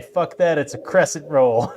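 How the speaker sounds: brash, scoffing American; mock American bluntness. Scoffing American voice mocking the French. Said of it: "Americans would just say".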